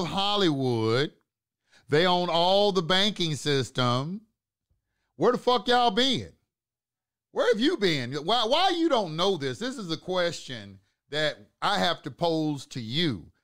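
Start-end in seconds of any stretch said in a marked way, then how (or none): 5.2-9.2 much higher, louder, incredulous yell; exasperated outburst. Real, not acted. Scolding viewers who never knew, loud disbelief. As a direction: throw it at them, fed up.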